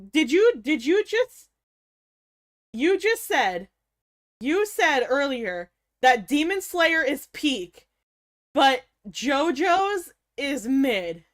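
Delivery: slow disbelief. Real, not acted. Disbelief at a chatter's take.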